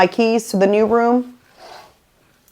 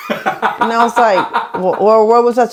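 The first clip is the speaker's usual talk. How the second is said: talking through real laughter; laughing. Real, not acted. Laughing with the podcast co-host over her own hotel mix-up. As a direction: let the laugh carry the words.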